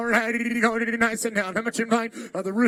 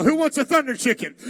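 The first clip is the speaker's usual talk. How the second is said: chicken impression; 3 semitones higher, 3 dB louder than usual. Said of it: "That's his best chicken impression".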